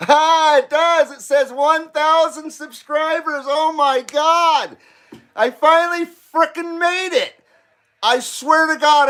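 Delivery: high, giddy laughter through words; can't stop laughing from joy; laughing with excitement. Real, not acted. Sees 1000 subscribers, laughing.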